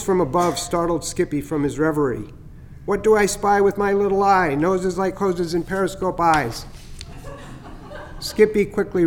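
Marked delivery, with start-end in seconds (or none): 2.9-6.6 a bright, teasing bird calling down from a branch; chatty starling voice. Acted. Starling Chatter teasing the turtle from above, playful. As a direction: play the cheeky starling.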